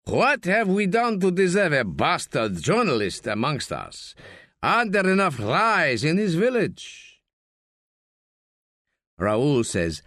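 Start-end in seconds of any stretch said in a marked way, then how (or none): 0.1-7.1 scolding. Acted. Frog scolding journalist Raoul.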